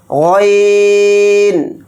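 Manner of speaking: غین gargled from the throat, slow. Shown as a demonstration. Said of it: "غین کو بھی حلق سے نکال کر ادا کریں گے". (غین حلق سے ادا کریں)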